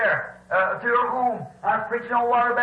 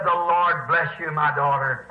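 solemn blessing; 6 semitones lower than usual. Retold or imitated. Beggar woman blesses her helper.

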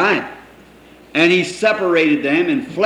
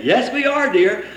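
wife's voice; 7 semitones higher than usual. Retold or imitated. Wife answers husband sweetly.

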